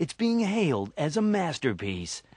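mock trailer voice praising a film; lightly parodied announcer reverence. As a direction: roll out the acclaim like a promo announcer. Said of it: "reference the word masterpiece in illimitable ways".

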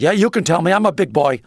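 loud blustery tycoon impression; blustery George Steinbrenner. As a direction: bluster it out like a big-shot team owner. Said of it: "And he said".

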